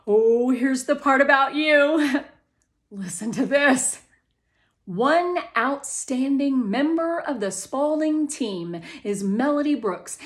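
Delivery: mom proudly reads the article to her daughter; mom reading aloud. Acted. Mom reads part about Melody.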